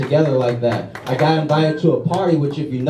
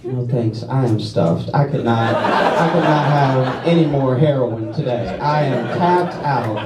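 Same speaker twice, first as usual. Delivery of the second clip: mock polite refusal; 2 semitones lower, slower than usual. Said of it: "I was like".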